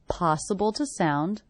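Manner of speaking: "to" reduced to a schwa in "Possible to sound". Shown as a demonstration. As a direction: say "to" as a quick schwa. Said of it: "reduced to the schwa".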